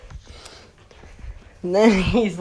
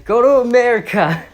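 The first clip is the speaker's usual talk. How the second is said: higher, louder mock command; mock shout; 7 semitones higher, 7 dB louder, faster than usual. Hostage taker tells cops, mock shouted order. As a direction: bark it like a smug hostage taker. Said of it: "And that who says".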